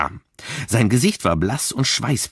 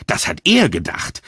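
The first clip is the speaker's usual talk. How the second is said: spiteful; 2 semitones lower, 3 dB louder than usual. Acted. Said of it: "mit unvermittelter Gehässigkeit".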